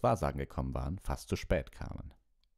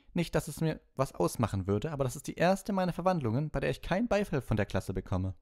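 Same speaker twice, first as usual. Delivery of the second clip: much higher, dry teacher voice; a higher-pitched stern schoolmistress; stern professor; 11 semitones higher, 3 dB louder than usual. A narrator's reading. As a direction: needle the class as their professor. Professor addresses silent class.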